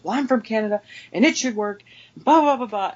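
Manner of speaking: imitated yelling customer. Customer interrupting the cashier's question, imitated indignant yelling. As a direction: cut in with a mock-outraged rant. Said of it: "She just starts yelling".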